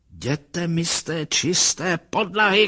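high-pitched, slow, drawn-out scolding; scolding cry. A narrator's reading. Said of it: "křičela". (vysoko položené hubování)

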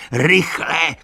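high, loud shout of alarm. A narrator's reading. Benjamin warning the animals, loud alarmed shout. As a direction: let the second cry burst out. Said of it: "křičel".

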